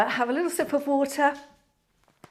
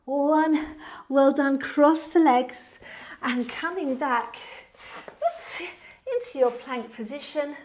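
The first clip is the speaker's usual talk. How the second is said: workout instructor cueing. Acted. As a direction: lead the class through each move steadily.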